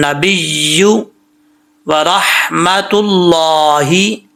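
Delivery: very slow tajweed with long held vowels; read-along recitation. Shown as a demonstration. Teacher has students read along, slow measured recitation. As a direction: recite phrase by phrase, stretching each long syllable. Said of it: "अब आपने मेरे साथ पढ़ना है".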